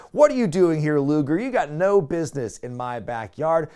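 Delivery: mildly heated wrestling challenge, imitated; half-yelled mock confrontation; Hogan/character. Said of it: "and Hogan screams".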